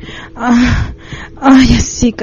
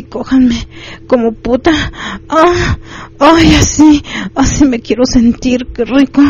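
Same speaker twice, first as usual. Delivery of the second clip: higher-pitched moaning cries, not a full shout; acted cries of pleasure; 4 semitones higher than usual. A narrator's reading. Narrator voicing the woman in his story, crying out in pleasure. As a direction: cry out in pleasure, voice lifted high. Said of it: "mientras gritaba".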